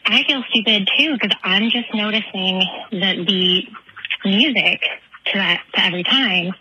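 panting, out of breath; winded from running, pausing for air. Real, not acted. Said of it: "sorry, I'm out of breath".

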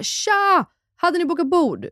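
high-pitched, chirpy imitation of staff; acted-out lively host welcome; exuberant bistro greeting. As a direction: call out a breezy hello to arriving guests.

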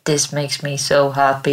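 flat robotic monotone. Pretend. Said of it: "with a robot voice".

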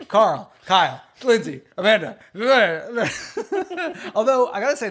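giggling through the words; laughing while talking; trying not to laugh. Real, not acted. Laughing through a joke list.

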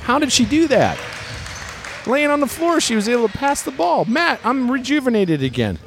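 excited amazement. Acted. Amazed at a pass from the floor.

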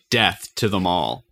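Wendy Williams. Retold or imitated. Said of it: "if I was Wendy Williams, I would say".

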